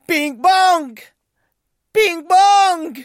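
high, loud calls into the distance; calling out. A narrator's reading. Joy calls down to Bing Bong, loudly alarmed. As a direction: shout his name down the cliff.

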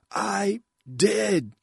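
high, loud shout; shouted answer. A narrator's reading. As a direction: yell it through the helmet. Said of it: "Adel shouted".

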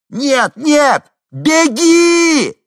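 very high, very loud scream; full scream. A narrator's reading. Henni screams to the woman from the helicopter, full scream. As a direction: shout with all your might.

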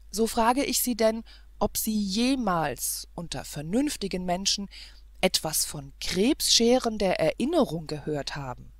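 indignant challenge. Acted. Prince demanding an answer from the governess, indignant. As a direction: challenge her with contempt. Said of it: "mit einem heftigen Sprunge".

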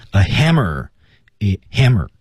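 "hammer" stressed on its first syllable, falling after; "a" kept light, "hammer" given the weight. Shown as a demonstration. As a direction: land firmly on "hammer". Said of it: "这个词是要重读".

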